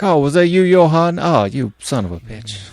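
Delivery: put-on high, loud Finnish accent; mock Finnish accent. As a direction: play a startled Finnish friend. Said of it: "not sure how good my accents are".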